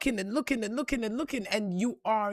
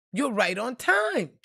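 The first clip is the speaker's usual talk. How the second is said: slower, lifted repeat of the message; slower than usual. Retold or imitated. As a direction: repeat it slowly, raised from the first take. Same message repeated, higher.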